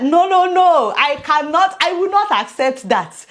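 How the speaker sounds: firmly refuse, raising the voice; emphatic refusal. Retold or imitated. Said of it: "I said".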